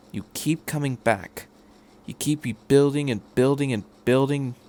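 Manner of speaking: hushed pep talk; quiet inspiring. Acted. Doctor telling sleepy Shinji about resilience, quiet.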